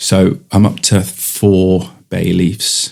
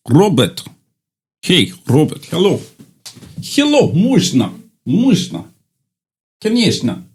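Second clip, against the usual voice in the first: high silly call; 7 semitones higher than usual. Pretend. Calling someone in odd voices.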